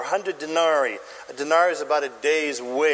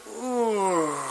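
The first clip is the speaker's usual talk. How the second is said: crowd's ooh; 2 semitones higher, 4 dB quieter than usual. Acted. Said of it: "what do you think the crowd's feeling?".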